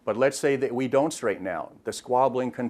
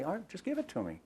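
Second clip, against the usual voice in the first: softer, higher and quicker, easy-going; calm request; 8 semitones higher, 9 dB quieter, faster than usual. Retold or imitated. Officer calmly asking a driver for his license, softer and quicker. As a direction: keep it light so he stays relaxed. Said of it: "Chris very calmly say".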